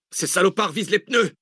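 high-pitched, alarmed cry; shouting. A narrator's reading. Driver under gunfire to passengers, shouting. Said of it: "cria Zach".

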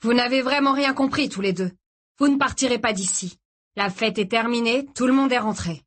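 voix haussée de ravisseur qui impose sa loi; remets-les à leur place, plus aigu; ravisseur autoritaire. A narrator's reading. Réplique du ravisseur. (ravisseur menaçant et condescendant)

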